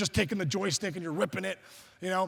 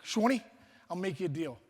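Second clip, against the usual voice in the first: New York mom. Retold or imitated. Mom bargains with her kid, New York accent. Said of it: "she's from New York".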